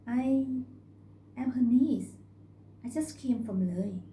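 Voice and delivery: a lightly voiced country girl; young girl speaking up; young girl's voice. Girl's voice, higher and louder.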